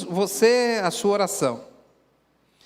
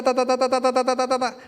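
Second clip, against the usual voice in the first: mocking rattled-off prayer; 3 semitones higher, faster than usual. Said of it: "Não chega lá assim e tá".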